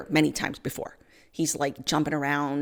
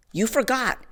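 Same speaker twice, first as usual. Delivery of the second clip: higher "You forgot." falling flat and final; flat contempt; 5 semitones higher than usual. Retold or imitated. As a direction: state "You forgot." as a cold verdict. Angry judge repeats her words.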